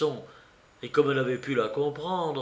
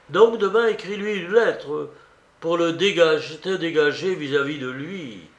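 insistent command; 4 semitones higher, 5 dB louder than usual. Acted. Raskolnikov commanding his sister.

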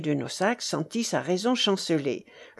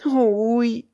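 raised, louder, fearful agreement; shuddering; 4 semitones higher, 5 dB louder than usual. A narrator's reading. Rochaine answers the baron about the mystery, shuddering. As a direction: agree with a touch of dread. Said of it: "répondit Rochaine frissonnante".

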